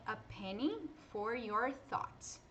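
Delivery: slow, careful "a penny for your thoughts"; English idiom. Shown as a demonstration. Teacher reads the English idiom to students. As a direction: read the idiom slowly as a model. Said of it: "uma expressão idiomática".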